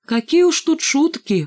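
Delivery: high, drawn-out singsong. A narrator's reading. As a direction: trill it sweetly, as if singing. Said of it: "пропела Шмакова". (пропела, нараспев)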